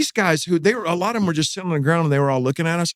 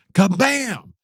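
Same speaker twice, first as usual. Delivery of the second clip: high punchy "kabam" for a slamming door; imitated door slam; 6 semitones higher than usual. Storyteller mimics guards slamming the door, punchy sound effect.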